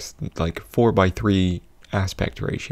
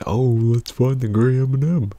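higher and louder, cheerful commercial read; mock excited ad voice; 5 semitones higher, 5 dB louder than usual. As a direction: sell it like a peppy ad. Quoting commercial mascot.

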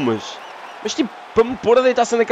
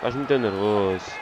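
deep, soft mock calm voice; patronising deep voice telling the fighter to calm down; mock soothing; 10 semitones lower, 7 dB quieter than usual. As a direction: talk him down in a low, patronising voice.

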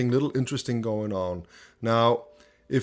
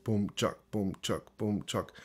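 mimicked boom-chuck rhythm; 3 semitones lower, 8 dB quieter than usual. Shown as a demonstration. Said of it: "the guitar in between does both".

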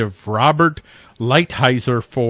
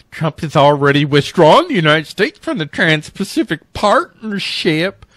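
put-on light Canadian accent on a news quote. Host reading a news quote aloud, slipping into a Canadian accent. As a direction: read it with a hint of a Canadian accent. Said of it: "I actually did a Canadian accent there".

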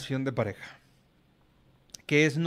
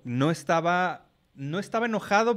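imitating the raised voice; "no estaba enojado" higher and louder; mock raised voice; 5 semitones higher, 4 dB louder than usual. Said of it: "subí un poco más de lo usual la voz".

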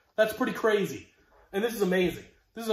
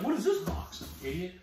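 mock self-questioning; 2 semitones higher, 5 dB quieter than usual. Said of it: "I'm like".

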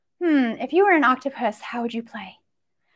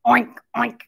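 pig oink; 3 semitones lower than usual. Pretend. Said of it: "they say".

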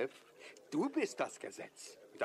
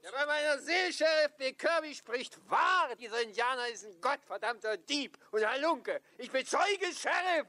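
loud accusing; 8 semitones higher, 5 dB louder than usual. Acted. Townsman accusing Indian to sheriff.

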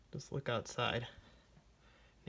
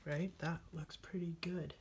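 soft whisper to yourself; 3 semitones higher, 4 dB quieter than usual. Real, not acted. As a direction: hush it like you're concentrating. Quiet self-talk while painting.

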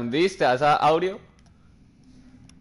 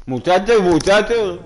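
louder call to the group; 2 semitones higher, 6 dB louder, slower than usual. Real, not acted. Calling teammates in the game chat, raised voice. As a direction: call the guys over.

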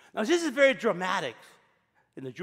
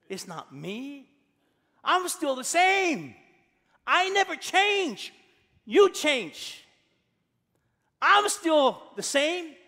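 emphatic God; 6 semitones higher, slower than usual. Acted. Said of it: "God responds".

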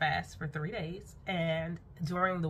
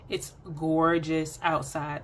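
slow, savoring the word gorgeous; admiring; 4 dB louder, much slower than usual. Real, not acted. Vlogger showing viewers her yard, slow admiring. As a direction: linger on it lovingly.

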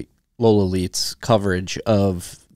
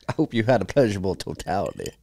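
put-on Southern accent. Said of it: "the accent?".

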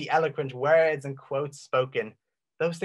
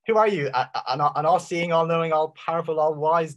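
rhetorical challenge; 3 semitones higher, 3 dB louder than usual. Real, not acted. Preacher challenges doubter, rhetorical.

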